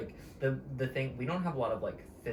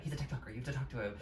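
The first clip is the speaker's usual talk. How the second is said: softer retold urging, lightly voiced; imitated quiet aside; 6 dB quieter, faster than usual. Assistant explaining the TikToker to star, imitated quiet aside. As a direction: relay a discreet aside, soft but voiced. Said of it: "whispering something to the assistant".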